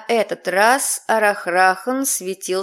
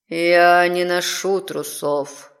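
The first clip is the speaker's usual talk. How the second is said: less menacing demon; 4 semitones lower, slower than usual. Acted. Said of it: "уже не так грозно".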